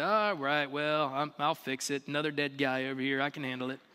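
low, quick offhand delivery; casual shrug-off. Acted. Preacher imagines an unmoved Jesus at a death, casual shrug-off. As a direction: toss it off as no big deal. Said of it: "this wasn't like Jesus walking in the room and be like".

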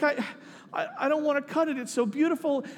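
gently plead, awed by something precious; softly moved. Retold or imitated. Agnes reluctant to cut her cake, softly overwhelmed.

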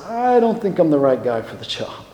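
softly reluctant demurral; hesitant, understated self-doubt; Moses. Acted. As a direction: gently back away from the job. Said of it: "what does Moses say".

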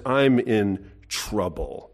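slow, heavy Isaiah confessing his ruin; Isaiah undone. Retold or imitated. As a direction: drag out each I am line in dismay. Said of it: "He says".

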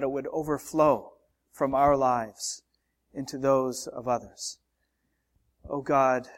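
a hushed congregational prayer in church. Real, not acted. Pastor prays before the sermon.

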